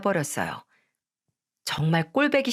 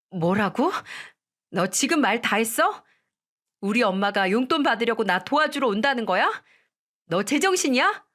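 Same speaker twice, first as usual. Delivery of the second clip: outraged wife; 2 semitones higher than usual. Acted.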